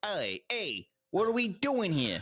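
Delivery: high, put-on New York gangster accent. Retelling what a voice on the PA said, in a New York mobster accent. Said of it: "he was talking like that".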